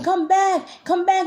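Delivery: high, slow sing-out call; imitated calling voice. Imitating the voices calling in the ear, high drawn-out call. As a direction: call them back in a high, stretched voice. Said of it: "And they're all saying".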